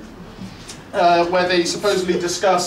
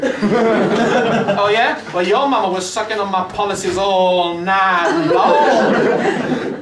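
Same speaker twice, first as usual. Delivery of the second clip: mock your-mama comeback; 3 dB louder, much slower than usual. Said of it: "mock MP comeback".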